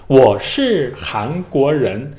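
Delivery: 我是韩国人 very slow, each tone pressed out deliberately; textbook-perfect tones, drawn out; overly careful learner tones. Shown as a demonstration. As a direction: spell out 我是韩国人 tone by tone like a proud student. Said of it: "比如我给大家学一下他们怎么说".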